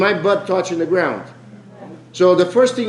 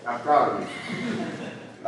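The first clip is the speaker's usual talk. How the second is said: laughing; 4 semitones lower, 7 dB quieter, much slower than usual. Real, not acted. Teasing praise after joke.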